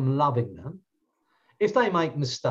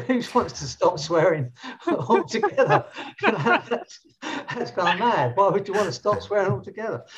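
quoting him through a chuckle, higher; laughing while quoting; 4 semitones higher than usual. Retold or imitated. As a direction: let the laugh break into the words. Friend laughing at the question.

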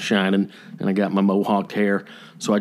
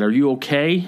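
higher, questioning lilt; mildly compassionate question; concerned check-in; 4 semitones higher than usual. Retold or imitated. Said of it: "some compassion or some concern".

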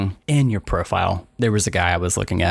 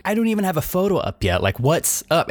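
mock outrage; 10 semitones higher than usual. Flooded with matches before photo up.

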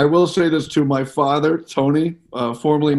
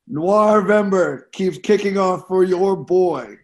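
slow, drawn-out, higher-pitched show opener; announcer-style intro; 4 semitones higher, slower than usual. Pretend. Host launches his noir-month picks after a countdown, announcer-style intro. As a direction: kick it off like a hyped host.

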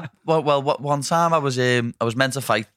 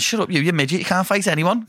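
mock taunt; 8 semitones higher than usual. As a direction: jeer like a cocky fighter mocking a rival. Quoting Venti insulting the fighter.

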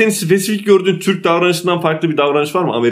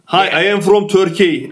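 mock Turkish accent; slower than usual. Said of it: "İngilizceyi aksanlı konuştuğun için".

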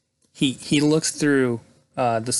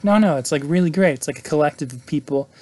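higher, louder, insistent reassurance; eager sales pitch; 3 semitones higher, 5 dB louder than usual. Retold or imitated. David selling the group to sceptical guests, eagerly insistent. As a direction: oversell it, starting emphatic then easing off. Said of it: "he tries to sell them on it".

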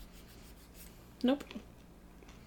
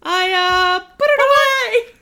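wife's reply; 10 semitones higher, 8 dB louder, slower than usual. Retold or imitated. Voicing the wife offscreen.

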